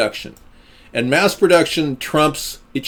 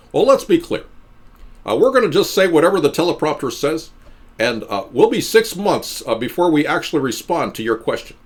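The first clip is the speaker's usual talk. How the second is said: Obama impression; 3 semitones higher than usual. Mocking robotic Obama.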